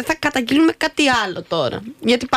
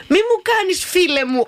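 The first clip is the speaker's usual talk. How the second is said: mock scolding; 7 semitones higher than usual. Acted scolding of a seat-hogging passenger.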